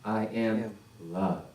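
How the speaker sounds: slow, soft I am love; soft affirmation. Shown as a demonstration. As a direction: say it quietly and slowly. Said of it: "Last time".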